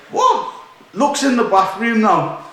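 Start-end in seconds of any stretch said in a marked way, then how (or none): 0.1-0.5 a sudden high, startled "What?"; shocked what. Retold or imitated. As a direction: jump up in pitch, caught off guard. Shocked at drunk friend's state.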